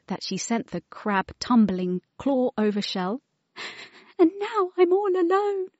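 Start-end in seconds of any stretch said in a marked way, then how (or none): 4.2-5.7 high, crying little voice; tearful. Acted. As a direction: sob the loneliness. Wilma crying.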